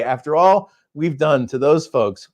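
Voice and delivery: usual speaking voice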